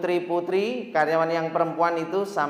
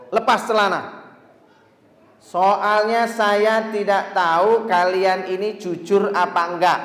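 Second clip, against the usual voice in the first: boss ordering; 3 semitones higher, 5 dB louder than usual. Retold or imitated. Boss ordering workers to drop trousers, louder and slow. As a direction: order them coolly. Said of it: "Kata si bos".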